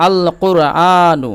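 "আল কোরআনু" slowly, with a full l; slow model reading of "আল কোরআনু"; lam fully pronounced. Shown as a demonstration. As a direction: keep the l of "আল" clear and stretch the aa in "কোরআনু". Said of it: "লামের উচ্চারণ পূর্ণভাবে হচ্ছে".

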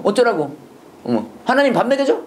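scornful challenge, rising high; mock angry retort. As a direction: play a sneering sceptic talking back. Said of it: "화내면서 얘기했을 것 같아".

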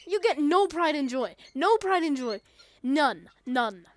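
loud scolding yell at a game character; mock yelling. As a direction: shout it down at them, half joking.

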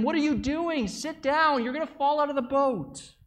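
high, loud alarmed shouting; panicked yelling. Acted. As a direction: yell at him to sit down. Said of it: "we were all yelling at him".

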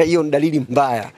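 chuckling through the words; teasing, with a light laugh; amused teasing. Real, not acted. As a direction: let a laugh slip into the jibe. Chuckles while teasing rival spokesmen.

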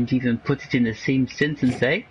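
hammed-up South African accent. Shown as a demonstration. Teammate asked to repeat himself, in a South African accent. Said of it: "say that again in a South African accent".

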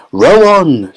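shouted. A narrator's reading. Mister Wonka cutting off questions, shouting. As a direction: push the rowers on. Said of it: "shouted Mister Wonka".

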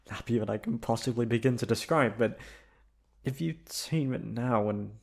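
a shy, emotional lover, happy and nervous in turn; tender girlfriend confession. Acted. Girlfriend hoping her partner means it, tender and emotional. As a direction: play the girlfriend who can't believe she's wanted.

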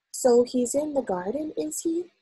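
lightly amused query; slight smile. A narrator's reading. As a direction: ask with a small smile, lifting at the end. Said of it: "smiling a little".

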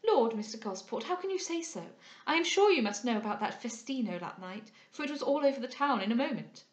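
lightly voiced gossip, lifting in pitch; prattling young lady, incredulous. Young lady gossiping about the festino, mildly incredulous. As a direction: exclaim like a chatty society lady.

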